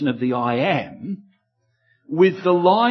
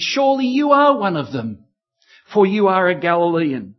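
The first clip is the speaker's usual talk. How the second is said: accusing bystanders; 3 semitones higher, 4 dB louder than usual. Acted.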